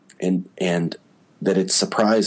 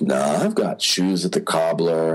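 lower, dry excuse; deadpan; 4 semitones lower than usual. Retold or imitated. Actor excusing himself from giving any thoughts, deadpan. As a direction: brush the question off with a straight, low delivery. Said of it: "he just says it very deadpan".

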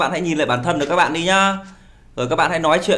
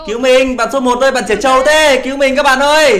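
higher, louder pleading calls; mock plea for help; 5 semitones higher, 4 dB louder than usual. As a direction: whine for rescue like a helpless kid. Begging teammates for rescue in game. (giả giọng van nài kêu cứu, cao và to)

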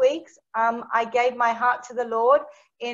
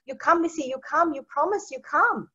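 higher, lightly imitated little boy; a hint of a small boy's voice; Tang; 4 semitones higher than usual. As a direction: plead in a child's simple English. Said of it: "He says".

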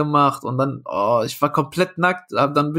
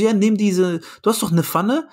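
pitched up, offhand suggestion; higher casual producer; 3 semitones higher than usual. Retold or imitated. Producers telling him to cook in hotel, higher offhand voice. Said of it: "Die so".

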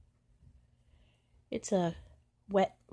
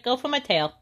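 higher taunting cat voice; voicing the cat again; 6 semitones higher, 5 dB louder than usual. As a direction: goad like a playful cat. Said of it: "He's like".

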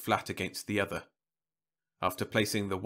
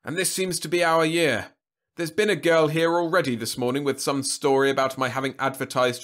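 put-on higher, fussy old lady voice; old woman voice; 5 semitones higher, 6 dB louder than usual. A narrator's reading.

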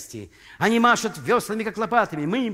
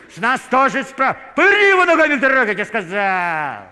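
much higher, louder, fast shout; furious yell; 6 semitones higher, 7 dB louder than usual. Acted. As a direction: yell the order at the digger. Foreman yelling at gravediggers.

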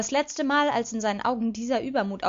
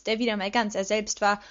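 plain reading voice

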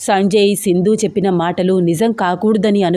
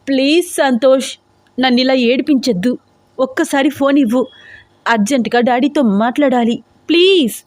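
higher, mildly raised pleading cry; pleading shout; 5 semitones higher than usual. Acted. Desperate daughter begs for phone, mild mock shout. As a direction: beg him for the phone, voice pitched up. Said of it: "గట్టిగా అరుస్తోంది".

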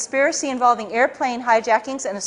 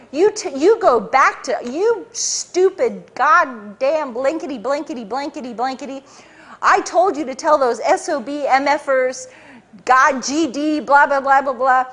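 half-hearted imitation of the boss's yelling; retold screaming rant.

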